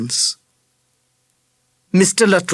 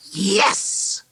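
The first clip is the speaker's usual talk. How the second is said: inward delight; 6 semitones higher than usual. A narrator's reading. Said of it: "Charlie thought".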